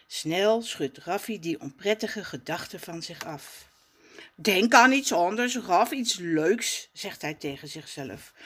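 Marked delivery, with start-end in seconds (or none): 4.3-6.9 self-soothing Raf. Acted. Raf calms himself.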